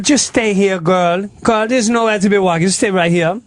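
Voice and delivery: lightly imitated Jamaican accent; mock Jamaican accent. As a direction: steer her gently in a Jamaican lilt. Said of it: "And she goes".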